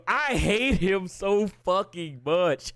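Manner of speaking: slow, drawn-out real loathing; emphatic loathing. Real, not acted. Fan ranting about a hated character, emphatic loathing. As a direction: stretch each word with disgust.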